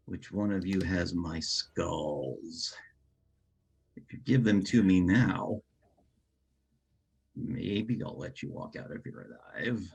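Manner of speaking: slow, menacing villain demand; evil villain monologue. Acted. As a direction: threaten them like a feral villain. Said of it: "do an evil villain monologue grandstanding".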